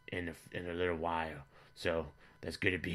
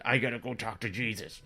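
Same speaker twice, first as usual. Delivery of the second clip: higher-pitched mock upset outburst; retold tearful cry; 4 semitones higher, 4 dB louder than usual. Son to father after being teased, mock tearful. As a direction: imitate a son crying as he announces his exit. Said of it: "he started crying, and he said".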